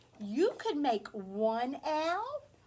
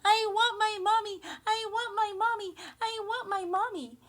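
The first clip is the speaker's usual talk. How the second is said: high, loud mock wail fading away; imitating a crying boy; 9 semitones higher, 8 dB louder than usual. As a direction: play the lost toddler wailing. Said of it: "the little boy was crying".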